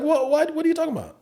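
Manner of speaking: high, stammered retold question; baffled. Comic answers laughing friend, high baffled reply.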